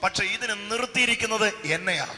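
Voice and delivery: loud, ringing sermon delivery; full-force preaching. Acted. Pastor preaching to the crowd, at full force. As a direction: preach it out to the congregation.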